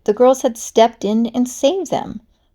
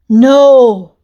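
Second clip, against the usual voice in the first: horrified cry; 3 semitones higher, 10 dB louder than usual. Acted. Kitty realizes the plan.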